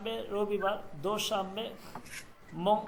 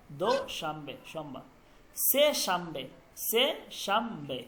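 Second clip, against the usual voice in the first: slow repeat; 5 semitones lower than usual. Shown as a demonstration. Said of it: "মানে হচ্ছে মঙ্গলবার".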